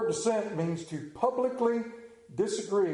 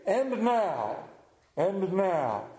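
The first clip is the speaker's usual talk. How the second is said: authoritative news anchor; much slower than usual. Retold or imitated. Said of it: "they always had that authoritative voice".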